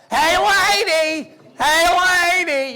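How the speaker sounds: high, loud, drawn-out goofy yell; Jerry Lewis. Retold or imitated. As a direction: ham up a bad Jerry Lewis. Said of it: "this really bad imitation of Jerry Lewis".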